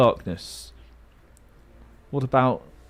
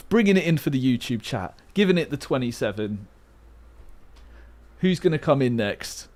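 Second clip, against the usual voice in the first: StarCraft commentator. Pretend. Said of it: "I've turned into a StarCraft commentator".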